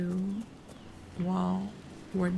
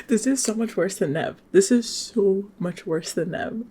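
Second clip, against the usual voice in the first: loud dismay; 7 dB louder than usual. Real, not acted. Player finding this so much worse than Nev, loud dismay. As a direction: blurt it loudly, then stretch it out. Reacts in dismay to game scene.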